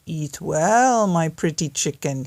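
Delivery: wolf calls to the chicken from the porch; wolf calling out. Acted. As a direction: call sweetly to the chicken. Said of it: "he cried".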